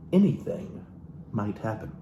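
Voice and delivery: lightly theatrical book reading; a hint of stage reading from the book; dramatic reading. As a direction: read the passage like a soulful memoir. Continues reading the book aloud.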